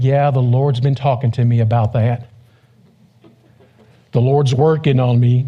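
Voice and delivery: slow, self-satisfied holy tone; mock pious. Pastor mocks a fake-spiritual believer, slow pious tone. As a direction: play the fake-spiritual churchgoer, slowly. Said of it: "he's like".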